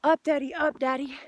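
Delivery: put-on high, pleading little-kid voice; child's plea. Father hearing his small child beg, high and pleading. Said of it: "when we cry out".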